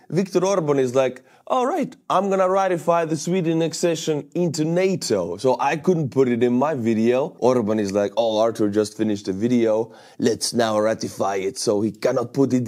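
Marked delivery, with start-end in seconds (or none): 1.5-5.4 mock Orban accent. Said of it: "went French with Orban's accent". 8.2-11.6 put-on accent slipping into French; botched Hungarian leader impression, comes out French-accented; Viktor Orban. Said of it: "went French with Orban's accent".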